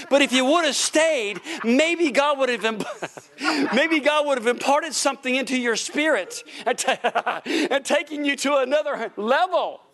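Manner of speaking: teasing through laughter; laughing taunt. Real, not acted. Preacher teases those who left, laughing. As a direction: chuckle while needling them. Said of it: "laughs through the taunt".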